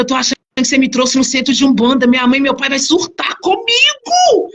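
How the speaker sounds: rising into a high, frantic complaint; panicked protest. Retold or imitated. Retells panicked protest to mother-in-law. (protesto apavorado, voz subindo)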